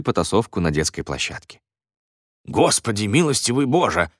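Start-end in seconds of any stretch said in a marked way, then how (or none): 2.4-4.1 building to a high-pitched yell; exasperated cry. A narrator's reading. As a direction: cry out at the end of your patience. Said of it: "крикнул Редж".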